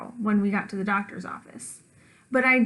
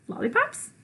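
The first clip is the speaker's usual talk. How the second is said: delighted surprise; 10 semitones higher than usual. Acted. Surprise at the lollipops.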